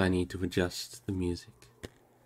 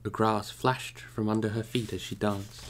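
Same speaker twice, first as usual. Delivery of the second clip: measured storytelling read, unhurried; calm audiobook narration; story narration; 2 semitones higher than usual. A narrator's reading. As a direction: read it like a bedtime chapter. Resumes reading the story.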